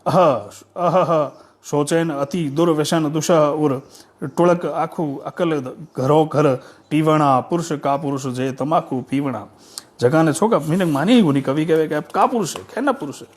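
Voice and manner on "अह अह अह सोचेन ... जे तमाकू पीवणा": measured, metrical poem reading; declaimed folk poetry with pauses at each phrase; verse recitation. Acted.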